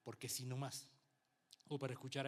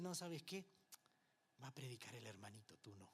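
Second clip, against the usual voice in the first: a hint of an offhand pastor, dropping much softer; dismissive aside, fading; 4 semitones lower, 6 dB quieter than usual. Strict pastor tells young Willy he won't preach, offhand and fading. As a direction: say it offhand, trailing away.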